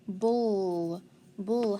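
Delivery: "Bull" as an isolated ending syllable; bull sound demo. Shown as a demonstration. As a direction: sound out "Bull" slowly for spelling. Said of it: "spell the bull sound".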